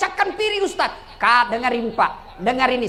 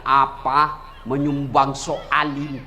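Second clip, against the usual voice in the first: sneering wife; 9 semitones lower, slower than usual. Acted. Wife mocking husband's donation.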